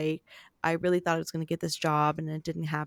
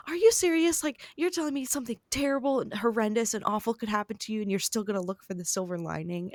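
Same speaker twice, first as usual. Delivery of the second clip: mildly put-on incredulous scolding; mock exasperation. Mom mad at her child's optimism, mock exasperated. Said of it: "my mom will get mad at me".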